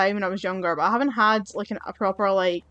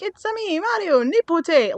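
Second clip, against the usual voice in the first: much higher, louder and slowed mock Italian greeting; hammed-up Mario-style uncle; 9 semitones higher, 5 dB louder than usual. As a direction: parody the uncle's cheerful greeting. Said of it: "He's just like".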